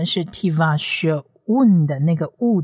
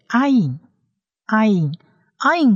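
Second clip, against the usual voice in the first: slow, higher ayin, ayin, ayin; slow letter demo; 4 semitones higher, much slower than usual. Shown as a demonstration. Teacher slowly names the Hebrew letter for learners. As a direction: stretch the letter name out. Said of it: "第四个字母呢是".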